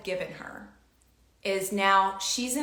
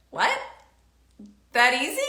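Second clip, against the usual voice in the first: surprised; 5 semitones higher, 5 dB louder, faster than usual. Retold or imitated. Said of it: "I was like".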